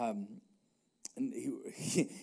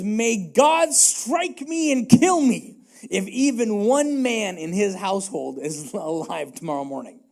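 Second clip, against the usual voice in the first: louder, slower oath; David vowing to wipe out Nabal's house; furious vow; 4 dB louder than usual. Acted. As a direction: swear vengeance with weight.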